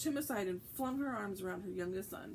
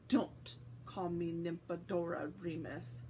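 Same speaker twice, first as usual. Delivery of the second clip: with a shudder; 4 semitones lower, slower than usual. Acted. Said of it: "said the young witch with a shudder".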